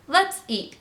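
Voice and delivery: high, eager cheer; exclaiming. A narrator's reading. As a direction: exclaim it as a keen invitation. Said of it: "Captain Dalbert exclaimed".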